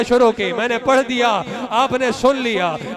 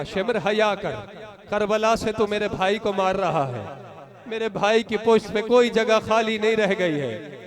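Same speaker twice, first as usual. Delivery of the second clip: hushed tearful plea; 2 semitones lower, 4 dB quieter than usual. Acted. Preacher retells the sister's plea to mourners, hushed. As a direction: let the plea sink to a grieving hush. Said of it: "मेरी बहन ने कहा".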